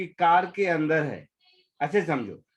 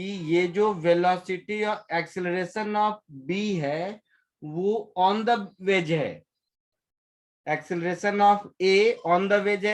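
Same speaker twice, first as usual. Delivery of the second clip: slow dictation; slower than usual. Shown as a demonstration. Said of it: "उधर लिख दिया था".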